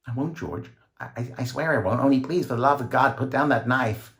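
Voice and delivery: high stammering plea; terrified pleading. A narrator's reading. Woman begging George to drop the knife, high and frightened. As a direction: beg him with your voice breaking.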